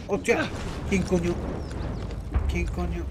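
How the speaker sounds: loud high alarm at being shot; alarmed shouts. Real, not acted. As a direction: yell in real alarm. Ambushed, shot at. (alarma a gritos al recibir disparos)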